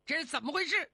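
fast, startled stammer; hurried question. Acted. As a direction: blurt it out in a rush. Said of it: "忙问". (慌忙急促地发问)

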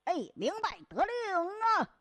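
lightly voiced eager underling; eager subordinate. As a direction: snap to it like a soldier taking orders. Soldier accepting orders.

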